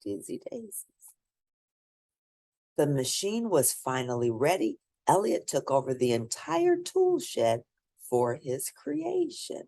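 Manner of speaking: put-on lively read-aloud voice for children; storybook reading. A narrator's reading. Reading a picture book aloud to children, lively storybook narration. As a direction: bring the bedtime story to life for little listeners.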